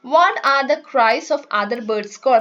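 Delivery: slow, careful textbook reading; reading aloud. Shown as a demonstration. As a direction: read each word out slowly for the class. Teacher reads textbook English slowly.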